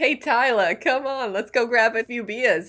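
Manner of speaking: bad put-on New York accent sliding toward Boston. Someone from Alabama shows how a New Yorker would talk, in a bad put-on New York accent. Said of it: "I can't do a Yankee accent very well".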